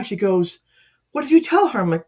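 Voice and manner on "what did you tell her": high-pitched accusing question; retold indignant demand. Mother questioning caseworker at funeral, high indignant demand.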